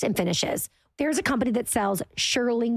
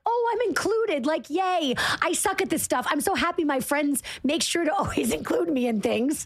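higher, thrilled and giddy; excited; 5 semitones higher than usual. Retold or imitated. Host reenacting her reaction to a friend's text, giddy. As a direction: squeal over being included. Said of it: "I was like".

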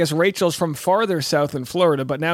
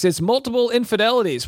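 band announcer; 5 semitones higher than usual. Shown as a demonstration. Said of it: "Coming up next".

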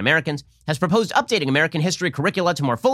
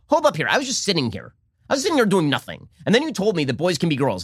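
mock innocent Republican; 3 semitones higher than usual.

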